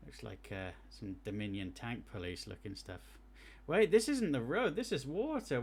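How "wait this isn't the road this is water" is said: surprised realization. Real, not acted. Notices road is water.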